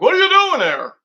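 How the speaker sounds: high loud mock question; mock neighbor. Imagining what the neighbor yells at him, mock high shout. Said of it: "he looks at me like".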